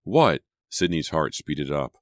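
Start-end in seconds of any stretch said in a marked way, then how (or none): 0.0-0.4 sudden high startled What. A narrator's reading. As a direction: jump at it, alarmed. Startled reply to sharp call.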